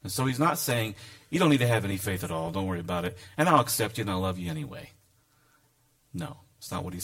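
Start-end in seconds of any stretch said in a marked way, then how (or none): 1.3-4.9 mock lenient voice.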